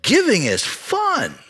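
imitating Wayne's thick Cajun twang, slowly; raw Cajun accent. Older Cajun friend tells the young student giving is fun, in a raw Cajun accent. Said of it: "in his raw Cajun accent".

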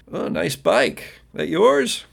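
slow praise, then a high question; impressed youth. Acted. Youth spots stranger's bike, impressed. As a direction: admire it, lifting sharply at the end.

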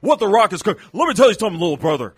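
loud wrestler catchphrase delivery; big, punchy trash-talk bellow; Dwayne The Rock Johnson. Acted. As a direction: boom it out like a wrestling promo. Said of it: "it's Dwayne The Rock Johnson".

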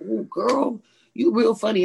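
gushing producer. Retold or imitated. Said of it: "the producer comes up and he was like".

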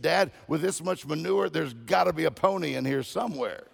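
put-on eager kid with a happy hunch. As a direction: play the hopeful little optimist. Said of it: "What are you so happy about?".

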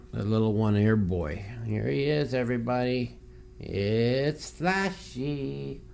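high soft doting voice; pet talk. Real, not acted. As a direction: dote on the one-eared cat. Showing his cat on stream.

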